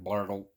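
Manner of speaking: low, soft imitated belly rumble; coffee-pot percolating burble; stomach gurgle. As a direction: make a gurgling stomach noise. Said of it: "my stomach is like".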